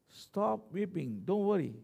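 slow, soft words of comfort; gentle reassurance. Acted. Preacher voices elder consoling weeping John, slow and soothing. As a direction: ease them out of weeping, slowly.

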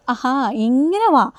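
slow, drawn-out taunt; sarcastic slow come-around; mocking drawl. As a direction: stretch it out to needle her. Chandra taunting in retold scene.

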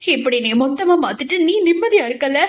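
put-on a young woman's heartbroken, tearful reproach; anguished crying. A narrator's reading. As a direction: plead through the pain of a broken heart. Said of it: "மனதின் வேதனை தாங்க முடியாமல்".

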